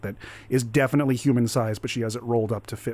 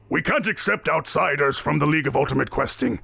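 indignant voice, climbing higher; stern bearded captain; 7 semitones higher than usual. Acted. Captain objecting to outsiders from the balcony, indignant. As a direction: build from stern refusal to high indignation.

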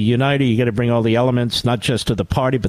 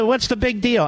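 mock Sununu; 10 semitones higher than usual. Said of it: "Sununu said".

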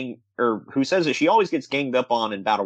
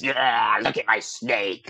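Luna; much slower than usual. Retold or imitated. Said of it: "Luna is".

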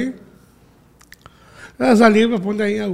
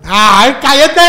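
excited disbelief; 2 semitones higher, 7 dB louder, slower than usual. Real, not acted. The speaker is offered a trip to Dubai, loudly thrilled.

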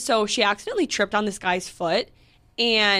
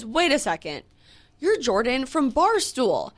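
higher-pitched mock friendly recognition; mildly mocking, higher gushing voice; imitating overly nice fan; 4 semitones higher than usual. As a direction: act out a guy suddenly being nice. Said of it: "he was being all nice to me".

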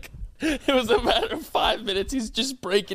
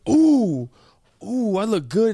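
vain friend; 4 dB louder, slower than usual. Retold or imitated. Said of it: "and he goes".

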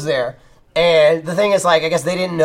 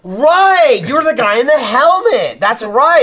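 high, loud delighted recall; light up as it clicks; excited recognition; 8 semitones higher, 6 dB louder, slower than usual. Retold or imitated. Actor recognizing Gavin in theater, high loud delight.

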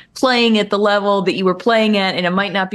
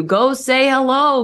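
slow, higher, sarcastic push to greet fans; mock royal send-off; 4 semitones higher, slower than usual. Podcaster teasing LeBron about his royal subjects, slow and sarcastic. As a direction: mockingly usher him out, drawn out.

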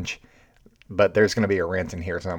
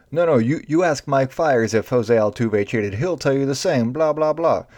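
mock Correa; 5 semitones higher, 3 dB louder than usual. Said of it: "he was like".

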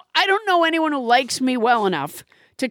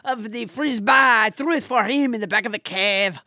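put-on French accent; 3 semitones lower than usual. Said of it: "second draft on all his accents".

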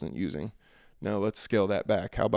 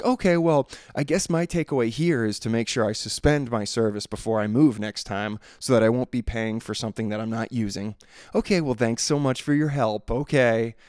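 louder, pointedly fake-polite thanks; sarcastic; 4 dB louder than usual. Caller ending the call with the agent, sarcastic and louder. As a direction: wrap up the call with biting sarcasm. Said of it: "sarcastic tone".

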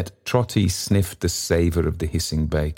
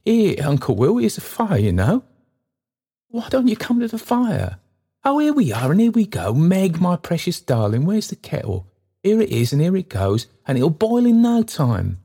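put-on quick bouncing old porter, pitched high and loud; trotting speech; 13 semitones higher, 4 dB louder than usual. Trotty guiding Uncle Will home, trotting along in his talk. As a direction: hurry the stranger along, jaunty.

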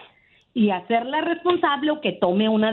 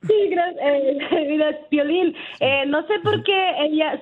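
a real catch of tears breaking into a small laugh; choked-up gratitude, half crying, half laughing; teary thanks; 4 semitones higher than usual. Real, not acted. Caller finally reaching her favorite radio host, teary and laughing.

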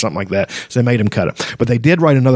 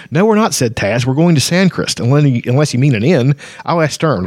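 put-on higher, cheerful young voice; cheerful kender; 4 semitones higher than usual. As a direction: chirp it like a carefree kender. Kender Taz voiced brightly.

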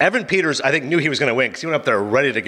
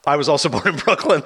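laughing through it. Retold or imitated. Laughs mid quote.

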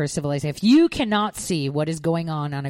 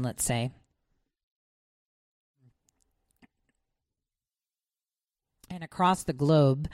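choking on a drink; talking through a choke; 5 semitones lower than usual. Real, not acted.

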